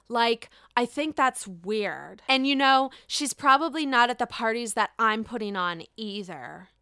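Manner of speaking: lightly voiced Lisa, close to my own; a hint of catty Lisa shade; understated mimic of her dismissive quote; Lisa Barlow voice. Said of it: "I'll do it in her voice 'cause I got this quote".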